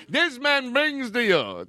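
high, slow fake Australian accent; hammed-up Australian, pitched high. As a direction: stretch it out in mock Australian. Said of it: "I have a fake accent".

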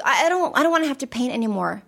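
retold childish reluctance; panicked child. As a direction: voice a mildly panicked little kid. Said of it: "he looked at me, panicked".

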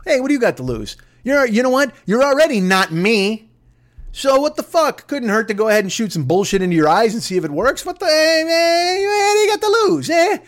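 brash, pushier as it climbs; mock Trump. Comic quoting the president shrugging off risk, rising mock voice. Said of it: "he says shit like".

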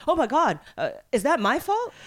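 light mock panic, voice lifted; retold alarm. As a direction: play the worried friend asking. Friend's alarmed reaction, retold.

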